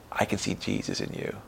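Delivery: unvoiced, awed whisper; hushed whisper. Stranger from the stall whispering to the smiling woman. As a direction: breathe it like a secret. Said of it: "They come out and they go".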